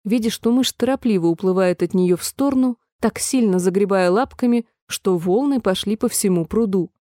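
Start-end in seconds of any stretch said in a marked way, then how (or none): none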